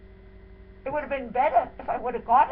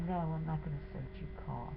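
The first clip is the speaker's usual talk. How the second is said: much softer, lower, timid backing down; meek; 5 semitones lower, 14 dB quieter than usual. Retold or imitated. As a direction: shrink away and mumble the refusal. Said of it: "So he goes to me very meekly".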